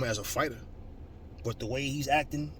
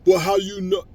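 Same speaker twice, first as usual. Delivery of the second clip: higher, louder whiny mock question; mocking a critic; 8 semitones higher, 10 dB louder than usual. Ranting vlogger mimics a doubting fan, high and loud. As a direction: sneer it like a know-it-all. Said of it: "you got stupid motherfuckers".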